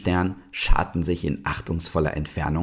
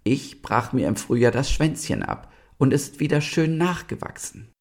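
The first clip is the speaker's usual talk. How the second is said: higher-pitched, encouraging lizard; consoling lizard; 9 semitones higher than usual. A narrator's reading. Lizard comforts the sad star, consoling. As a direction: comfort with your own example. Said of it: "tröstete die Eidechse den traurigen Stern".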